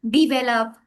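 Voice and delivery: "develop" as "dee-VEL-up"; long ee opening in "develop"; common variant. Shown as a demonstration. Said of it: "a lot of variations".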